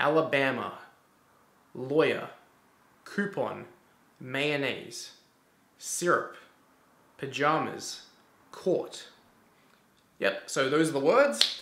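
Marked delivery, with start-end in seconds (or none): 0.0-9.0 drawn-out Queensland Australian accent. Reading a list of test words, the speaker demonstrates a Queensland accent. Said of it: "That's my Queensland accent".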